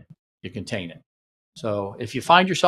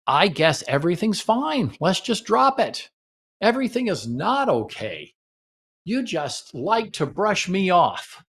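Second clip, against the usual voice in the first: hurt complaint; 5 semitones higher, slower than usual. Shown as a demonstration. Demo of a dismissive fight.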